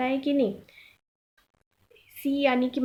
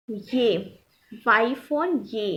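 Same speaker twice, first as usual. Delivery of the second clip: slow spelling; much slower than usual. Shown as a demonstration.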